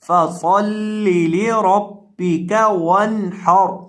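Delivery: slow chanted recitation, the noon in वनहर clear without nasal hum; slow tajweed chant; Quranic recitation. Shown as a demonstration. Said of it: "तो यहाँ हम पढ़ेंगे वनहर".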